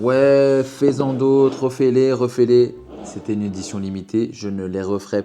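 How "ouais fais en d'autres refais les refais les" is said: pleading fans. Retold or imitated. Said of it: "vous êtes plein à me dire".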